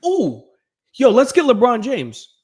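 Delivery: starts hushed, bursts into a high excited yelp; a sly plan that boils over into hype; hammed-up excited Kyrie; mock Kyrie scheming. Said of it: "was just like".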